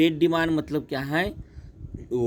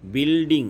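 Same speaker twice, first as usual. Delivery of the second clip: बिल्डिंग in two closer beats, BIL-DING; syllable split; 3 semitones higher, 4 dB louder than usual. Shown as a demonstration. Teacher summing up two syllables, बिल्डिंग in two beats. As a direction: mark both halves of बिल्डिंग. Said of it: "दो शब्द हो गए".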